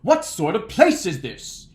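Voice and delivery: a performer's big, booming delivery. Retold or imitated. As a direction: project it like an indignant stage performer. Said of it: "He's got this big voice".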